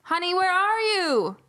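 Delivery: high, singsong call through the house; stepmom calling out. Acted. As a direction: call for your daughter, high and loud. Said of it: "the stepmom's shoes".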